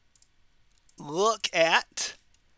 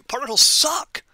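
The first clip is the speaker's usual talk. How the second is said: higher-pitched, emphatic exclamation; with an exclamation point; 5 semitones higher than usual. Shown as a demonstration. Teacher giving students a memory phrase, exclaimed. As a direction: punch it out high, like a slogan with an exclamation mark. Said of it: "Gotta say it with the exclamation point too".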